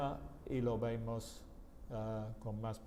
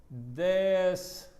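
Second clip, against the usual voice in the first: slow model answer; 3 dB louder, much slower than usual. Shown as a demonstration. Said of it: "we're gonna say".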